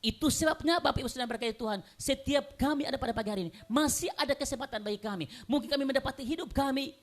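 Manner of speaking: high, insistent sermon delivery; urgent pulpit proclamation; impassioned preaching. Real, not acted. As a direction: preach it forcefully to the congregation. Preaches at full force.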